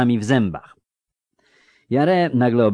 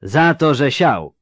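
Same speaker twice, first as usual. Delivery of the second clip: „Za to” pushed higher and louder, „siał” falling; emphatic; 4 semitones higher, 4 dB louder than usual. A narrator's reading. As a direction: punch „Za to”, then land firmly on „siał”. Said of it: "powtórzył z naciskiem grubas". (z naciskiem, „Za to” wyżej i głośniej)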